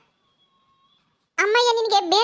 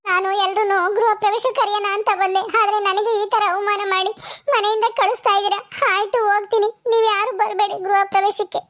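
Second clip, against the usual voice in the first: bitter, sarcastic daughter refusing food; sting every polite word. Acted. Netra mocks her sister-in-law and walks out, bitter.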